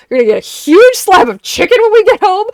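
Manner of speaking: put-on high, loud sing-song baby talk; baby talk to dog. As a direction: coo it like to a puppy. Cooing to her dog.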